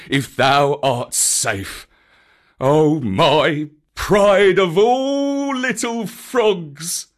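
mild whimper of relief. A narrator's reading. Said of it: "whimpered Baloo".

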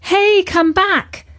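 high, loud call across the garden. A narrator's reading. Katy calls the deer back over the fence, high and loud. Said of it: "she called".

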